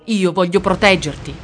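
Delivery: a touch of emotion cracking the voice; voice breaking. Acted. Boy to his mother, lightly voice breaking. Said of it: "con la voce rotta dall'emozione".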